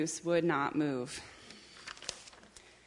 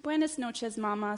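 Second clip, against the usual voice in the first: higher, sweet goodnight; baby chick; 4 semitones higher than usual. Acted. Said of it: "said the baby chick".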